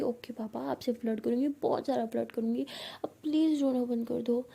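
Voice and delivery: indulgent soothing. Acted. Placating the crying girlfriend.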